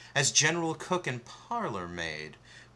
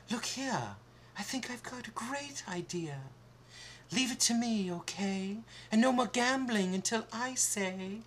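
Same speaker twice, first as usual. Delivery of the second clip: put-on much higher girl voice, firm; Snow White bossing; 12 semitones higher than usual. Snow White laying down the law to the dwarfs, firm. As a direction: take charge of the dwarfs. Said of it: "Snow White said".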